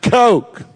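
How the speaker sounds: "Coke" stretched long and loud; a booming, drawn "Coke"; Billy Graham's Coke. Retold or imitated. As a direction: hit "Coke" with a drawn-out southern vowel. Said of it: "like that".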